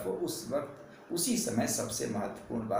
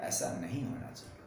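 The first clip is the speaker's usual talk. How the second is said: stone-faced flat line; 6 semitones lower, 6 dB quieter than usual. Shown as a demonstration. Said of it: "उसका stone face जैसा चुप होकर के".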